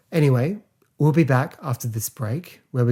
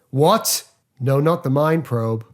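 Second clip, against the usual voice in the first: shocked then flat; 3 semitones higher, 4 dB louder, slower than usual. Retold or imitated. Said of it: "one of my favourite line deliveries".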